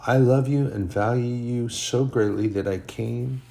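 a hint of tender reassurance to a troubled son; tender Holy Spirit. The Holy Spirit speaking to him.

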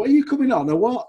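high, loud, laughing call; laughing tease. Retold or imitated. Fan laughing as he calls to the substitute. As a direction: tease him through a laugh. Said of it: "and go".

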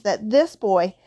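slow, loud, climbing to a high finish; indignant, heavily stressed words; growled outrage. A narrator's reading. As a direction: build to an incredulous peak. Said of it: "he growled at the Dursleys".

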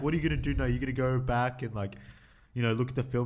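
put-on New Zealand accent. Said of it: "That was a terrible New Zealand accent".

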